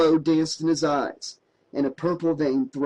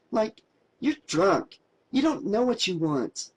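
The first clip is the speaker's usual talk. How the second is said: protesting; 5 semitones higher than usual. A narrator's reading. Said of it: "she protested".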